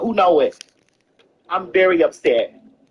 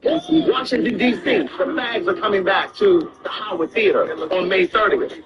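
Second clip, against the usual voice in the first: ad read. Acted.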